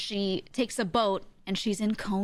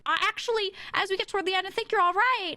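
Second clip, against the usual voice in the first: mock Christine; 11 semitones higher, faster than usual. Christine telling the Phantom he's all right, mock-sweet. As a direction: play her as a little charmed.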